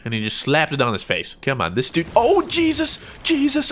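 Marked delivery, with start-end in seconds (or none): 2.1-3.7 high startled yelp; startled alarm. Real, not acted. Gamer jumped by an enemy, high startled yelp. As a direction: blurt it out high in shock. Sudden attack in game.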